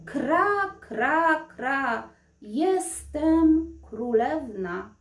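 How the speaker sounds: a princess trapped in a crow's voice; cawing crow princess. Acted. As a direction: crow caws, then a slow drawn-out cry. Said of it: "zakrakała".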